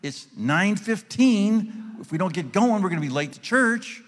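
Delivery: loud, slow barking coach; coach's voice. Shown as a demonstration. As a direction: bark it like a gym coach. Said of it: "using the coach's voice with Linda".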